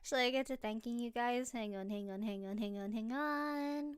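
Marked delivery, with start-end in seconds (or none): 1.5-3.9 quiet, mouth stuffed with candy; mumbling round a sweet; mouth full. Real, not acted. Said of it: "I don't wanna spit this out".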